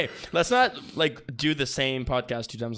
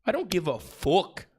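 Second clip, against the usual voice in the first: put-on Irish accent; 3 semitones higher than usual. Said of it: "kinda sounds like".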